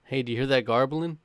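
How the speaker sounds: put-on quoting Rob in a light Boston accent, garbling for gobbling. Rob asking the tribe about the rooster, light Boston accent. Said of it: "it's literally how Rob said the word gobbling".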